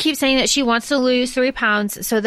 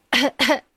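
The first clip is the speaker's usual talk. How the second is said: little put-on sick cough; fake cough. Quoting the sick excuse, with a fake cough. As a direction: cough weakly for show.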